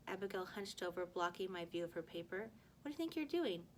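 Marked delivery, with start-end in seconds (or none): 2.8-3.6 high, sharp accusing question; indignant challenge. A narrator's reading. Girl catches classmate copying, sharp and indignant. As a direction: catch him in the act, indignant.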